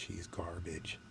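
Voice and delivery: unvoiced contemptuous whisper; hushed repeat, He's garbage under breath; whispered dismissal. Real, not acted. Dismissing rival, said twice.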